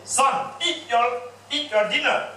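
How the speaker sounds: a father slowly ordering his son to eat; stern father. Acted. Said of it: "The father said".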